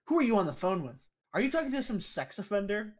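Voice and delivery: loud, high, suspicious mom; loud, high alarmed mom; mom's alarmed yell. Retold or imitated. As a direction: demand who's on the phone like an alarmed mother. Mom yelling about the phone.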